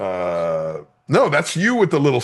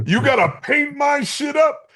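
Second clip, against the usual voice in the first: much higher, hammed-up joking voice; mock high voice; 11 semitones higher, 3 dB louder than usual. Comedian jokes to podcast hosts about makeup, mock high voice. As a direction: repeat it in a silly put-on voice, a lot higher. Repeats line in put-on voice.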